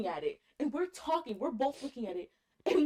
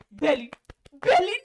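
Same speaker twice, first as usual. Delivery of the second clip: tag; 9 dB louder than usual. Retold or imitated. Calling cousin to wake up.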